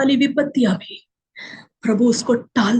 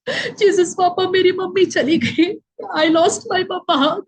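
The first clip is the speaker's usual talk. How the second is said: retold child crying; 4 semitones higher, slower than usual. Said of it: "जोर जोर से चिल्ला के रो रहा था".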